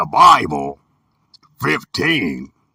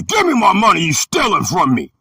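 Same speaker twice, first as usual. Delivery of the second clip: high, indignant mock yell; a little kid shouting for his money; kid demanding money; 6 semitones higher than usual.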